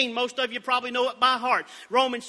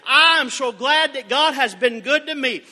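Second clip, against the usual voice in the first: fervent declaration; 6 dB louder than usual. Acted. Preacher's declaration.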